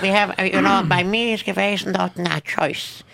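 a lightly voiced Russian accent; Russian host offering soup; Russian character voice. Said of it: "impersonates a Russian".

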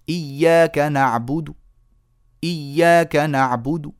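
نعبد ended with a tiny whispered damma, no qalqala; faint damma on the dal. Shown as a demonstration. Teacher demonstrating rawm on the dal of نعبد. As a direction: end نعبد with a small rounded dal. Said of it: "آتي بدال مضمومة صغيرة".

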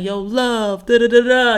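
imitated New York guy hollering; lightly mocked New York catcaller; New York accent. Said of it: "He was like".

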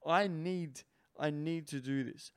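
drawn-out, very slow craving; imitating a man gripped by desire, very slow; burning desire. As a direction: savor the need slowly. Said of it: "and you're going".

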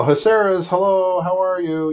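put-on bright high child's phone greeting; cheerful kid on the phone; young son answering. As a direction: play the nine-year-old picking up the phone. Nine-year-old son answers phone.

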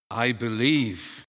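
slow, loud cry of faith; exclaimed. Retold or imitated. Father crying out to Jesus for his son, loud and slow. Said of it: "the father exclaims".

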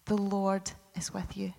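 "the Lord is with you" whispered, no voice. Acted. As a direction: breathe the promise as a soft whisper. God greeting Gideon.

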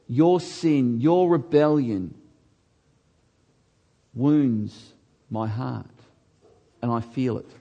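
slow, grieving plea from God; sorrowful voice of God. Acted. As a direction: let God's hurt show, slow and low. Voicing God slowly and sorrowfully.

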